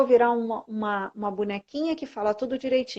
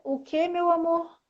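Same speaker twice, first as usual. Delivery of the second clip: gentle reply instead of yelling; 5 semitones higher, slower than usual. Shown as a demonstration. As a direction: answer the husband sweetly, no yelling. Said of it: "ao invés de eu gritar". (resposta doce e calma, sem gritar)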